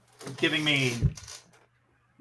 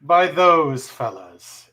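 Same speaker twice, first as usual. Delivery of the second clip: sultry narrator; 5 dB louder than usual. Acted. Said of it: "in your sultry voice".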